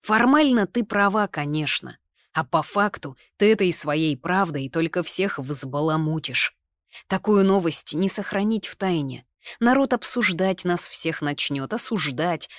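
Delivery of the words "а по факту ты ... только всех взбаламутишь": plain reading voice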